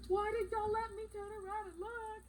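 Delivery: high-pitched, frantic panic; shrill voice squeezed by panic; panicked cry. Retold or imitated. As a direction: replay the horror of seeing the blood. Panicking after seeing blood.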